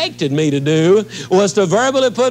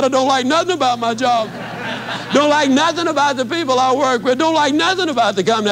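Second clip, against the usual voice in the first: higher, lightly voiced griping woman, speeding up at the end; a hint of her sulky griping; complaining woman; 4 semitones higher, faster than usual. Woman listing everything she hates, lightly griping.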